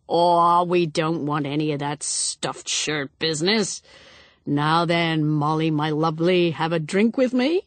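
a hint of a boozy, hearty man; jovial, pushy bonhomie, lightly played; lightly voiced tipsy guest. Tipsy Dyson urging Molly to be familiar, hearty.

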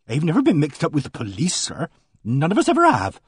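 a flustered countrywoman pouring out her news; voiced housekeeper. Mrs Baker refuses police.

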